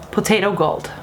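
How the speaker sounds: usual speaking voice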